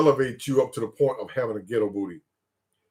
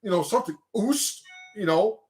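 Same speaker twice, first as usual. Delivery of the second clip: retold question; 6 semitones higher than usual. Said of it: "I was like".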